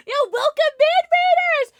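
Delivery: loud, high streamer welcome shout; hype welcome. Real, not acted. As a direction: greet the raid at full hype. Streamer greets incoming raid.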